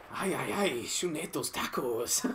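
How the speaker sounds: slow hammed-up Spanish accent. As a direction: drawl it in a jokey Spanish accent. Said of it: "stop speaking in a Spanish accent".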